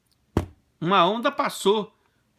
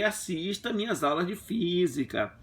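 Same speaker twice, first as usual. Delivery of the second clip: slow, drawn-out teasing lecture; lecturing wife; 3 semitones lower, slower than usual. Retold or imitated. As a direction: spell it out to her slowly. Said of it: "Eu falei". (dando lição à esposa, devagar)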